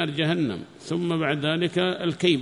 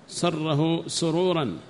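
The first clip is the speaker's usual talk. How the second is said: slow dictation; much slower than usual. Shown as a demonstration.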